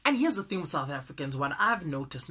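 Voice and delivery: quick run of words; hurried, fast-talking delivery; speaking really fast. Real, not acted. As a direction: rattle it off quickly. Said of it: "now I'm speaking really fast".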